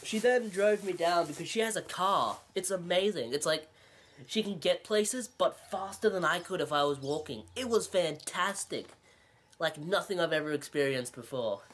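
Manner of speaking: mock amazement; sarcastic. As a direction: gush sarcastically, only lightly overplayed. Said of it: "the sarcasm".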